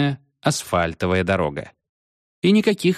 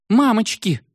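high, frightened squeal; 12 semitones higher than usual. A narrator's reading. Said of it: "взвизгнула Машка". (испуганный визг)

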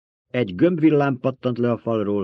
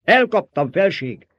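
high, loud triumphant cry; shouting; 9 semitones higher, 6 dB louder, slower than usual. A narrator's reading. Baron reports catching the girl, shouting. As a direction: call it out to your sovereign. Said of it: "kiáltotta a báró".

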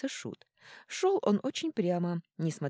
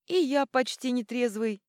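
higher, louder cheerful shout; jolly exclamation; 8 semitones higher, 6 dB louder than usual. Acted. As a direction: exclaim it merrily, raising a mug. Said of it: "воскликнул король Йорли". (король весело восклицает)

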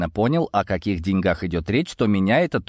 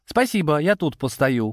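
higher, lightly amused refusal; 6 semitones higher than usual. A narrator's reading. Narrator refusing to approach the angry Serb, amused. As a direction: decline cheekily with a touch of amusement. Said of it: "хохотнул я".

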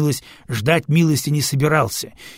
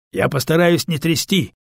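shouting; 4 semitones higher than usual. Acted. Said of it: "кричит арсиец".

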